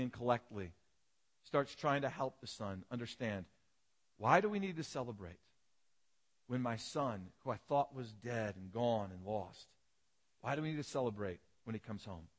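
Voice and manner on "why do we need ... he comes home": calm father. Retold or imitated. Father calmly explaining to his angry son why they celebrate, gentle. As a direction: gently reason with an upset son. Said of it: "the father calmly and coolly".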